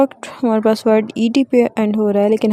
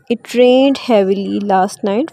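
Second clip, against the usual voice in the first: very slow, "rained" ending in a clear d; slow model reading; much slower than usual. Shown as a demonstration. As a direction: dictate slowly, "rained" with a d. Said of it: "ड के sound pronounce करेंगे". (धीमे-धीमे, "rained" में साफ़ ड)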